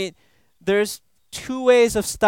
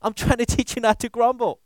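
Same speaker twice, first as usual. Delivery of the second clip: God answering; 5 semitones higher than usual. Retold or imitated. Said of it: "And God is saying".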